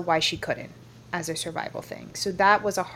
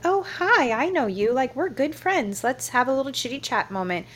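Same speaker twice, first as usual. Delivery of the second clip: lightly voiced friendly chit-chat, pitched up; casual chummy guy; 6 semitones higher than usual. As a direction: imitate an over-familiar acquaintance in a higher voice. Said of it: "casual it was, how much this guy was like".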